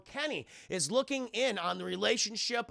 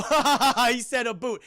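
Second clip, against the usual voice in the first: mock laughing; 4 semitones higher, 8 dB louder than usual. Voicing mocking laughter quote.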